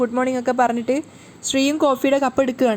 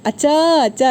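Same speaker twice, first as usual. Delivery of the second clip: eager call to dad, pitched up; calling out eagerly; 3 semitones higher than usual. Acted. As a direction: call out to father, rushing in. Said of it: "എന്ന് പറഞ്ഞിട്ട്". (അച്ഛനെ ആവേശത്തോടെ വിളിക്കുന്നു)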